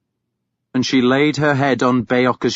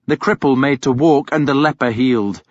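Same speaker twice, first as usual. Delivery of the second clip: usual speaking voice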